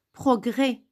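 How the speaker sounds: Progrès said 'progrè', no s at the end; silent final S. Shown as a demonstration. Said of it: "vous n'avez".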